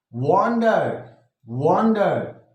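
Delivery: वॉन्डर slowly, with "वॉन" drawn out; stress on first syllable. Shown as a demonstration. Teacher scanning a poem line, वॉन्डर stressed on "वॉन". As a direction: lean on the "वॉन" in वॉन्डर, then fall away. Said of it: "stress".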